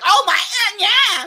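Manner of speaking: high, airy imitation of a ditzy girl; high mocking girl voice. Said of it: "she's like".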